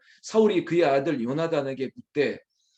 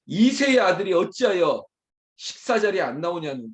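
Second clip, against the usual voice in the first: scornful, raised-voice quote; disparaging; 3 semitones higher, 4 dB louder than usual. Acted. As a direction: spit out the belittling title. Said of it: "이거 폄하하는 거예요".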